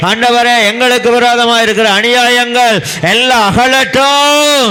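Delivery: high, impassioned prayer climbing to a sustained cry; full-force prayer. Acted. Preacher praying to God against injustices, full-force prayer. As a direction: pray with mounting intensity, pitch rising line by line.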